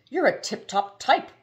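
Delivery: high, loud, booming praise. A narrator's reading. The giant driver booms praise at Haroun. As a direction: boom it like a jolly giant. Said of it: "boomed the fellow with the feathery hair".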